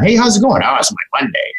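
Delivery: bright greeting, then a glum sigh; chirpy hello answered by a drooping voice; gloomy coworker. Retold or imitated. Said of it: "I see it all the time".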